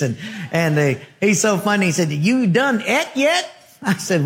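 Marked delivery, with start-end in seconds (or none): 2.1-3.5 put-on slow drawn-out redneck accent, pitched up; imitating a rural Montana redneck drawl. Redneck cook asking the preacher if he's eaten, in a redneck accent. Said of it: "they talk with an accent like this".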